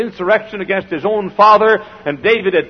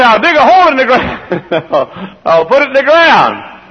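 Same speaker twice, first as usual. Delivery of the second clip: mocking quote; 7 semitones higher, 6 dB louder, slower than usual. Mocking listener's plan.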